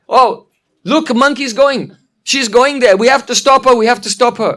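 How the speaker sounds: high, urgent storybook alarm; acted alarm. Shaibya sees monkey heading to the house, alarmed. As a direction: raise the alarm to a companion.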